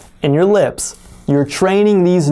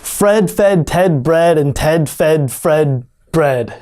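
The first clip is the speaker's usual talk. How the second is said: Fred fed Ted bread said slowly and carefully; slow tongue twister; slower than usual. Shown as a demonstration. Teacher saying the tongue twister slowly and clearly. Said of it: "so difficult to say it fast".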